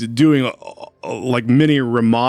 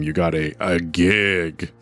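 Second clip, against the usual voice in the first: sarcastic air quotes; 4 semitones lower, slower than usual. Retold or imitated. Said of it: "it comes off as, like, sarcasm".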